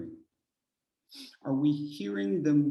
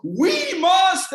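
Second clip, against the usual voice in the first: much higher, loud shout on We must; booming start; 13 dB louder than usual. Retold or imitated. Mocking the speaker's strong openings, loud shout. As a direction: hit the start hard. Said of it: "the beginning started off so well".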